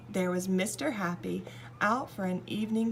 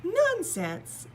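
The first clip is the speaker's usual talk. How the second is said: nonsense; 11 semitones higher, 4 dB louder than usual. A narrator's reading. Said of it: "said Little Miss Sunshine".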